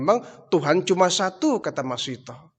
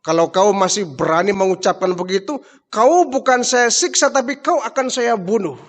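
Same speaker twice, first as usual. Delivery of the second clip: angry threat; 5 semitones higher, 5 dB louder than usual. Acted. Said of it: "Semakin marah Fir'aun".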